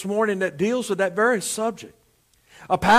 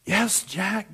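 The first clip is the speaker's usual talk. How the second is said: God's voice from above; 6 dB quieter than usual. Acted. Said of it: "the Lord said".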